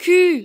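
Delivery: teacher modelling "كو" as in French culture; French cu demonstrated. Shown as a demonstration. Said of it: "سي أو نقراوها كو".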